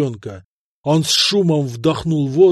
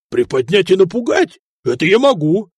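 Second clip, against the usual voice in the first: put-on gleeful, like a happy child; bright childish delight; childlike glee; 3 semitones higher than usual. A narrator's reading. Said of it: "по-детски обрадовался Сигурд".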